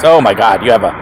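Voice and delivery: acted disbelief, rising on the question; mock scandalized. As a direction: imitate an appalled cycling purist. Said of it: "to the older crowd that".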